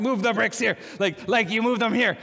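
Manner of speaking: loud, high over-explaining; mock loud tourist talk. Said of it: "we just get louder, more actions".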